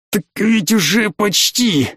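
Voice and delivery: high, slow, throttled wheeze; wheezing. A narrator's reading. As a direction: wheeze it out through a sore throat. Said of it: "просипел Ли".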